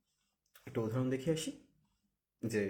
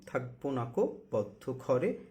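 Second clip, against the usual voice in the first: slow recitation; slower than usual. Shown as a demonstration. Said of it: "তাহলে কি হলো".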